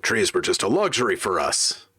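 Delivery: lightly voiced cranky old-timer; very old man. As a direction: grumble like a grandpa remembering hard times. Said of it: "in, in the old man voice".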